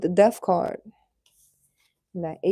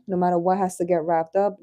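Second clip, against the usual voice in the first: normal talking voice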